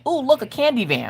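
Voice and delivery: put-on high, eager kid voice; a boy thrilled by a van; lightly voiced delighted child; excited little boy.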